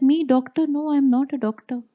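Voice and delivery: a mild mock of someone who forgot who she is; confused denial. Speaker voicing the doctor who forgot herself, mildly puzzled and high.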